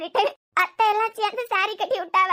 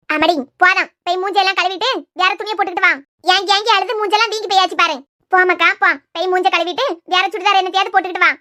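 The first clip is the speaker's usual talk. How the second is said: louder, brisk bossy instructions; firm orders; 7 dB louder than usual. Acted. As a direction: send her off to wash up. Ordering her to wash her face.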